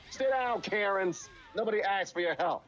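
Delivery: mock scolding shout at Karens; mock telling off.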